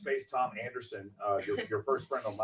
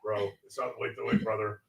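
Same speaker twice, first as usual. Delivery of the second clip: 1 bro impression. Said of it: "Do I talk like that?".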